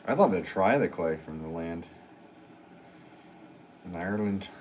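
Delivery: a lightly put-on, horrible Irish accent; bad Irish accent. To viewers in Ireland, a hammed-up bad Irish accent. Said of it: "that was a horrible attempt at a Irish accent".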